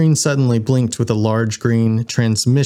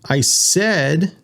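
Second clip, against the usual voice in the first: mild acted shout, pitch raised; insist, as if calling over blocked ears; shouted repeat; 6 semitones higher than usual. A narrator's reading. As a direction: raise the voice without real volume. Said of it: "Winston shouted".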